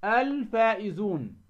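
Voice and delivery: "الفائزون" drawn out with a clear l; slow model reading of "الفائزون", lam pronounced; demonstrated lam. Shown as a demonstration. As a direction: sound the lam fully before ف in "الفائزون". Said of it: "ولا تظهر معه".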